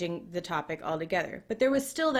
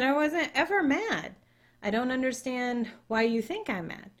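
insistent denial; 5 semitones higher than usual. Retold or imitated. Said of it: "I said".

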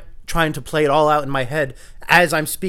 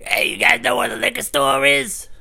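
big guy voice; 9 semitones higher, 4 dB louder, slower than usual. Retold or imitated. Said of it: "he's like".

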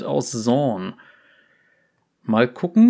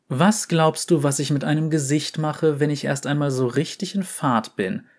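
steady, lively read-aloud narration; story reading. A narrator's reading. Reader tells Vai's interrogation story to viewers, lively narration.

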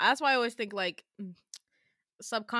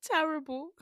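higher mock-British echo; British accent; 5 semitones higher than usual. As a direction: parrot it in a hammy British accent.

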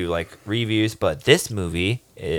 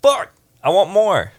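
much higher, slow eager groan; craving more; 10 semitones higher, 4 dB louder, slower than usual. Retold or imitated. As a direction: beg for more, wound up. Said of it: "I was like".

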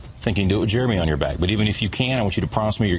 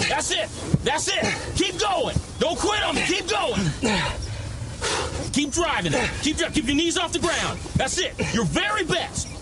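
hoarse marathon cheering; 2 semitones higher than usual. Acted. Coach yelling during death crawl.

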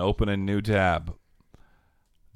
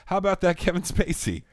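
game show host voice; 11 semitones higher than usual. Acted. Mock announcer joke.

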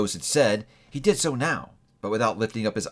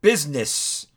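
loud, higher wail of despair; anguished cry; 5 semitones higher, 3 dB louder, slower than usual. A narrator's reading. The ghost cries out against Scrooge's words, anguished. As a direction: fling the word out in anguish. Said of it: "cried the ghost".

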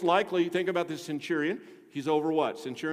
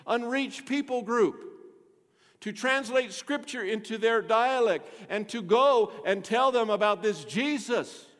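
raised, emphatic sermon delivery; forceful preaching; 6 semitones higher, 4 dB louder than usual. Real, not acted. Pastor telling the church why people go around the world, forceful preaching. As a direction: preach out to the whole room.

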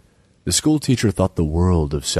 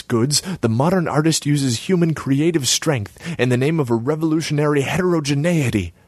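higher pitched, nagging artsy woman; Selma's voice; 8 semitones higher than usual. Acted. Selma needles Borislav about his empty kiosk, high voice. Selma preaches her new theory.

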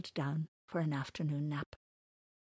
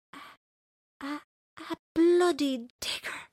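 stunned disbelief; 9 semitones higher, 5 dB louder than usual. Acted. Stunned at the news.

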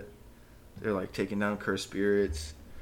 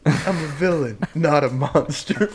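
pinched voice; 5 semitones higher, 6 dB louder than usual. Retold or imitated. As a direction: whine it out like a cartoon kid. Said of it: "S1 repeats the quote".

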